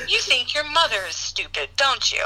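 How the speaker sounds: imitating a stern, controlled father; understated mock-stern interrogation; composed anger. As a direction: accuse with contained anger. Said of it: "he gets himself composed".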